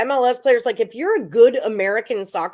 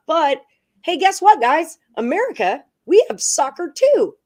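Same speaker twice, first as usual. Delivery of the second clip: higher, louder hype-man call; rally the fans, pumped up; excited hype; 7 semitones higher, 4 dB louder than usual. Real, not acted. Host hyping American soccer.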